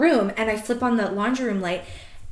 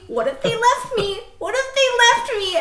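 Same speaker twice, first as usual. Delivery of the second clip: each repeat climbs higher in mock panic; rising panic; 9 semitones higher, 4 dB louder than usual. Alone in the bathroom, fearing friends left, rising panic. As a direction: spiral up into a high frantic whine.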